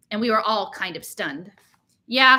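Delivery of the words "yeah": confused. Acted. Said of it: "sounding confused".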